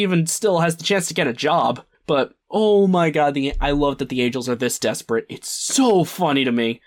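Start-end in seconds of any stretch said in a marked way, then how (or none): none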